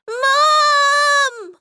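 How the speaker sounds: high shouted cry for mom; desperate shout; scream. A narrator's reading. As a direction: scream it out in terror. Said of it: "she screamed".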